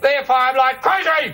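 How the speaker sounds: mock rant. Comic rant against New Zealand.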